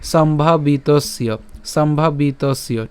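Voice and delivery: সম্ভাবিতস্য as one slow word, "sombhabitosyo"; joined together. Shown as a demonstration. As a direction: sound the y glide at the end of সম্ভাবিতস্য. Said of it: "আমরা একসাথে উচ্চারণ করলে".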